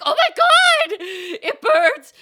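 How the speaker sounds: shrieked high and very loud through laughter; over-the-top laughing shriek; hammed-up wail. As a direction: wail in comic agony, half laughing. Hams up her horrified reaction.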